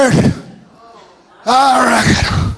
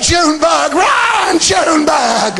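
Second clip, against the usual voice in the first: cheering grandparent; 4 semitones higher, slower than usual. Retold or imitated. Cheering grandkid at ball game.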